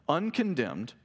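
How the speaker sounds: "uncondemned" set apart and emphasized; stress on uncondemned. A narrator's reading. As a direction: give "uncondemned" its own weighty beat. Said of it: "emphasis on uncondemned".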